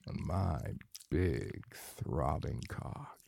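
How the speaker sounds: breathy, moaning intimate voice throughout; sensual erotic roleplay. Acted. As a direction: murmur it like a lover lost in pleasure.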